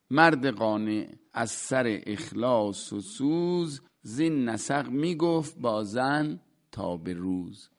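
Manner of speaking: measured, rhythmic recital of classical verse; poem recital. Acted. Teacher reciting a Rumi couplet to his class, measured recital.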